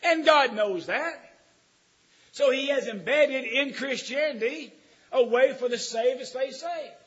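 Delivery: loud, slow, high preacher's cry; booming sermon delivery; full-force preaching. Acted. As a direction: preach it out to the pews.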